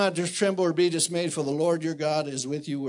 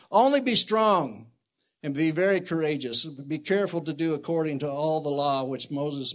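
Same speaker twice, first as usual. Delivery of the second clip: preaching at full force. Acted. Preacher charging the men with the verse, full force. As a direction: thunder the verse out from the pulpit.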